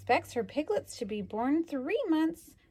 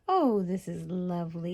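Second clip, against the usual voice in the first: contented pig; 4 semitones lower than usual. Retold or imitated. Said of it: "You could almost hear him thinking".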